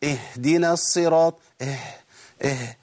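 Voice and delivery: "اهدنا" with only a puff where h belongs; ha as mere air. Shown as a demonstration. Teacher demonstrates another error, ha as air. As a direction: let empty air out after the first vowel of "اهدنا". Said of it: "الخطأ الثاني إن أنا أجيب هوا".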